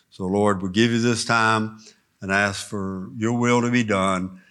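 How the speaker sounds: earnest pastor's prayer. Acted. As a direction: pray it humbly before the lesson. Opening prayer before teaching.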